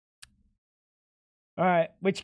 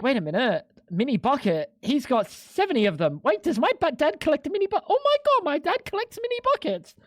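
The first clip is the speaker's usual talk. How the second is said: mock realization; 6 semitones higher than usual. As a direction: voice climbing higher into mock shock. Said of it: "you're like".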